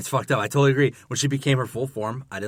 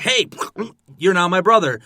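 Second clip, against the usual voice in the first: mock Enchantress; 7 semitones higher, 7 dB louder than usual. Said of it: "just like".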